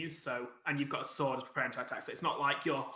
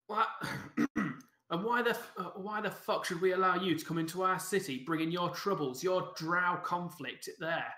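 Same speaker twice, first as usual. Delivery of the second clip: mildly indignant guard, pitched up at the start; growling challenge; 2 semitones higher than usual. Acted. Game master as city guard refusing entry, growling challenge. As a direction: challenge the newcomers with a touch of a growl. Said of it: "growls you and s-, uh, and says".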